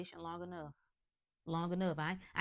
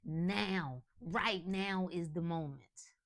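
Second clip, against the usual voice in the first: declared affirmation; 3 dB louder, much slower than usual. Pretend. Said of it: "You could say".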